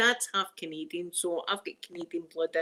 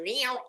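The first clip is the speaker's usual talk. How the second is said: short cat-like "reow"; imitated meow; 3 semitones higher than usual. Telling what cougars say in Scotland, meowing. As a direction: mimic a cat's meow. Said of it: "I'm thinking they're going".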